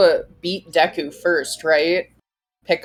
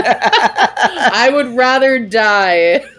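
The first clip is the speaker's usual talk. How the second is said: slow, laughing melodramatic vow; dramatic declaration; 4 semitones higher, 4 dB louder, much slower than usual. Pretend. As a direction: ham up a tragic refusal. Voicing the character.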